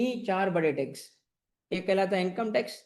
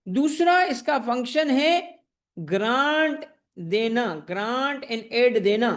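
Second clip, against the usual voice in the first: slow dictation; slower than usual. Shown as a demonstration. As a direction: spell it out slowly for notes. Teacher dictating the NFC functions. (धीमे-धीमे लिखवाते हुए)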